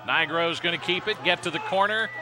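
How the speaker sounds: play-by-play voice building to a yelling crescendo; building excited call. Real, not acted. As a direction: let the call climb to a roar as the runner breaks free. Long run called live.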